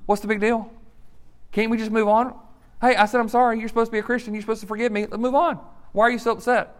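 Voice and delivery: mock the pushy apologizer who wants it over; impatient whining. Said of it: "Sometimes it's said like this".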